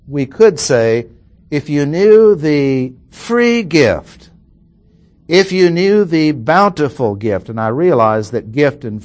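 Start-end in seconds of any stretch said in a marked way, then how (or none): 1.5-4.3 "free" drawn out and weighted; stress on "free". Shown as a demonstration. Teacher bringing out the gift's meaning, stress on "free". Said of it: "to bring this out". 5.3-7.5 "bountiful" given extra weight; stress on "bountiful". Shown as a demonstration. Teacher bringing out the word's bounty, stress on "bountiful". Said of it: "to bring this out".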